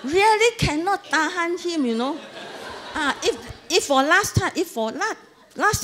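laughing through the words. Real, not acted. Wife laughing at her husband's chair reply.

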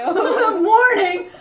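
high, loud, slow parrot threat; imitated bird warning. Storyteller plays the bird threatening her, laughing mock warning. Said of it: "He was like".

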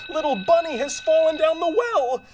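high-pitched emergency announcement; urgent alarm call. Acted. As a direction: call out the bad news urgently.

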